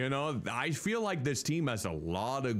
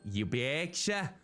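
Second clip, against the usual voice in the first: put-on Midwestern accent; 2 semitones higher, slower than usual. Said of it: "She has a Midwestern accent".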